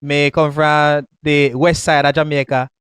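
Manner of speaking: broad Jamaican patois, words rolled loose; Jamaican accent. Shown as a demonstration. Man from Jamaica shows his real accent off. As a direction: drop into full Jamaican patois for him. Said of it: "Talk like one Jamaican".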